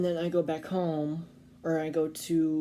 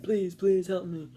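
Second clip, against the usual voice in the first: put-on raised, pleading voice of the lost old man; pleading old Italian man; 2 semitones higher, 5 dB louder than usual. Narrator imitating the old man begging passers-by, loud and pleading. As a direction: beg loudly for help like the stranger. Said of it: "He's like".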